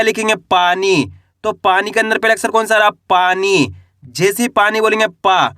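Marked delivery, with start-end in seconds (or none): 5.1-5.5 पा with its vowel held long; drawn-out vowel. Shown as a demonstration. Teacher sounds out the first letter of पानी, drawn-out पा. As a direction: stretch the long aa in पा. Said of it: "पा का उच्चारण खींच के निकल रहा".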